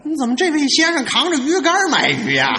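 acted bafflement, timbre changed; puzzled fishmonger. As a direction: question it like a baffled fish seller. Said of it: "卖鱼的直纳闷儿".

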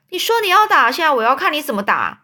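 very high and loud, then fast; challenge. Acted. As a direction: dare him to hit. Rival crosses line, challenges.

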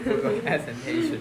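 laughing clarification. Shown as a demonstration.

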